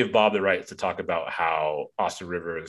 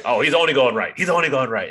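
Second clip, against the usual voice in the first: loud, higher-pitched mock heckling; dad in the stands; 6 semitones higher, 7 dB louder, faster than usual. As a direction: call it out like a dad from the bleachers. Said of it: "a dad in the stands".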